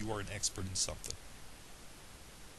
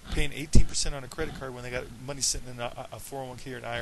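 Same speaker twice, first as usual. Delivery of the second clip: worked up; 7 dB louder than usual. Real, not acted. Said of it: "I went a little crazy here".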